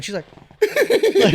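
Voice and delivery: high, slow laughing aside. Real, not acted. Telling friends about mom walking in, high laugh. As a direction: break up mid-story.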